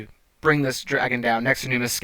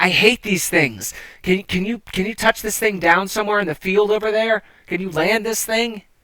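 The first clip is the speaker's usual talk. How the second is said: terrified, very high, petrified shouting; 9 semitones higher than usual. Voicing a rider behind a player on a dragon: petrified yelling over wind. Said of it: "quite petrified and is yelling in your ear over the wind".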